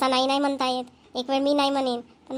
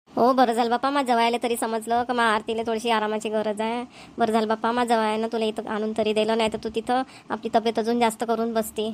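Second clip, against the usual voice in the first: relieved mother; 2 semitones lower than usual. Acted. Mother relieved daughter came home.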